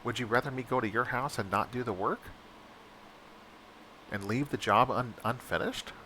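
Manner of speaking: mildly sarcastic question; retold sarcastic jab to the boss. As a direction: needle her with a light sarcastic edge. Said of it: "I got kinda sarcastic".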